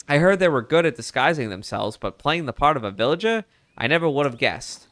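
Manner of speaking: put-on old-timey Mid-Atlantic reporter voice; Mid-Atlantic accent. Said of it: "my, uh, Mid-Atlantic act-, accent".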